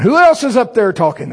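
high, loud bewildered cry; mock alarmed question; startled. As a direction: hear an unexpected voice and balk. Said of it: "And I'm going".

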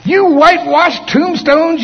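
high, slow, full-force shouted denunciation; loud rebuke. Shown as a demonstration. Preacher showing how Jesus rebuked hypocrites, loud shouted rebuke. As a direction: thunder it out, stretching the words. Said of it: "You think that's how he said it?".

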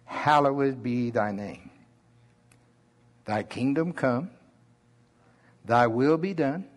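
unhurried Oklahoma drawl, words stretched out; slow Oklahoma drawl. Shown as a demonstration. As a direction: read the prayer slowly in an Oklahoma drawl. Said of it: "I'm just gonna read the Lord's Prayer in my slow Oklahoma drawl".

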